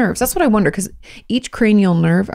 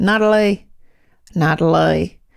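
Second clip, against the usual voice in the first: put-on Australian accent; 2 semitones lower than usual. Reading out a letter writer's name: put-on Australian accent. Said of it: "Why do we say Natalie like that?".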